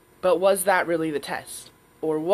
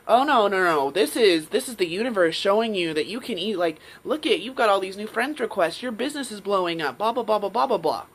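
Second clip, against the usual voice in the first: louder, insistent, brushing doubt aside; 3 semitones higher, 4 dB louder than usual. Retold or imitated. The saboteur voice overruling her, louder. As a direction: bulldoze the doubt with confidence. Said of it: "this louder voice".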